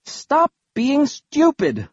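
high, slow exasperated yell; bellowing. A narrator's reading. Bastille scolding soldiers who say they've lost, bellowing. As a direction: bellow it word by word, drawn out. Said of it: "Bastille bellowed".

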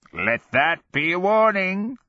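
high, crowing taunt; gleeful cackle. A narrator's reading. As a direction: cackle the warning with wicked glee. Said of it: "Sorrow cackled in abject glee".

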